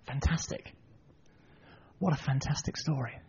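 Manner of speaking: very soft, marvelling aside; hushed wonder. Real, not acted. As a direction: savour it quietly. Preacher marvels at the story.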